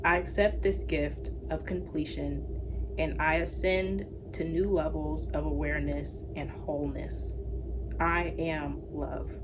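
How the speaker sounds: slow, gentle reading of an affirmation. Acted. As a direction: read it like a calm mantra. Reads affirmations.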